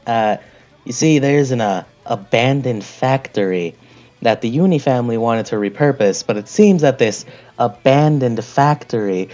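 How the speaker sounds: lightly voiced mob boss giving a job; a hint of a crime family fixer.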